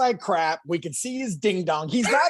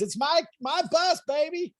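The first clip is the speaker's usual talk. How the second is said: shouting Ralph impression; 10 semitones higher than usual. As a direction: bellow it like the bus owner. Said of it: "He goes".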